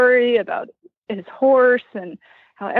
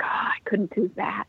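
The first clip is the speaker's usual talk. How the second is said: whisper; 7 dB quieter than usual. Retold or imitated. Shy self in retold scene.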